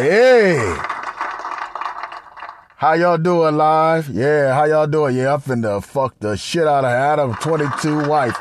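a hint of a swaggering porn actor; brother voice. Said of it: "He's like".

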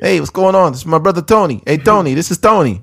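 hammed-up New York Italian accent; mock Italian mobster. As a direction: ham up the family introductions. Mobster bit continued.

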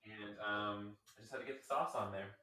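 distant, off-mic voice; talking from across the kitchen; far from mic. Real, not acted. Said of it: "that's why I sound far away from you".

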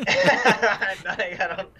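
laughing nervously through the words; uneasy giggle while answering. Real, not acted. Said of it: "This is nervous laughter right now".

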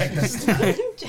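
slow, high mock American drawl; American accent. Shown as a demonstration. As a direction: say it like an American pundit. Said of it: "Check the stats in an American accent".

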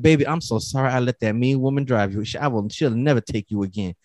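soft, hushed sweet-talk to a truck; tender apology to truck. Retold or imitated. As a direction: coo an apology to your beloved car. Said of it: "I had to drive her home like".

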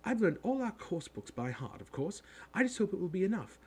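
high, rapid schoolgirl chatter; bossy girl talking in a rush; very fast. A narrator's reading. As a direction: rattle it off like an eager know-it-all. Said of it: "She said all this very fast".

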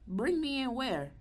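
high, startled disbelief; retelling her own alarmed reply; shocked question. Retold or imitated. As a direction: squeak it out in shock. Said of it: "I'm like".

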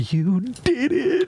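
drawn-out gentle Wonka line; Gene Wilder voice. Retold or imitated. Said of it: "And then G Wilder's like".

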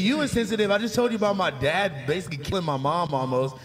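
loud, heated accusation; angry. Real, not acted. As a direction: call him out, fired up. Heated argument over insensitive joke.

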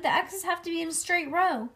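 put-on high, insistent kid's protest; shouted protest. A narrator's reading. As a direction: keep shouting to lay down the rule. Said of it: "she shouted".

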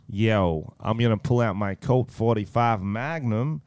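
slow mock-American rap-star talk; American accent attempt. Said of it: "I'll practice for the next minute".

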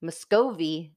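Muscovy said as "mus-KOH-vee", stress on the long middle o; Muscovy with a drawn-out middle o, as she first imagined it; mistaken pronunciation. Retold or imitated. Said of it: "I had inside my mind".

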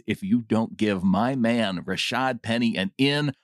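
reading a comment. Acted. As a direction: read the listener's words out for the show. Reads listener comment aloud.

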